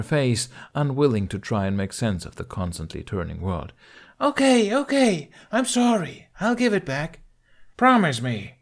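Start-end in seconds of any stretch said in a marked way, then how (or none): 4.2-7.2 very high, frantic giving in; panicked surrender. Acted. Kamikaze panics upside down in air. 7.8-8.6 barked. Acted. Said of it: "he barked".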